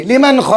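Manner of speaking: "लिमन ख" moving promptly from a short n to ख; no nasal hold on the n of "लिमन ख"; quick plain n. Shown as a demonstration. Teacher models quick recitation, "लिमन ख" with short n. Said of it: "जल्दी".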